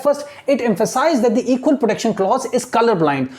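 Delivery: very slow, word by word reading; slow classroom dictation of English text. Shown as a demonstration. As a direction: read it out slowly so students follow. Teacher dictating slowly.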